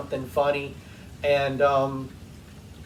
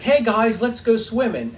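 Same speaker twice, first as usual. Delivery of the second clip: bright higher voice, imitating mother-in-law; 7 semitones higher, 4 dB louder than usual. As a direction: call them playfully like she did. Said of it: "that's how she would talk".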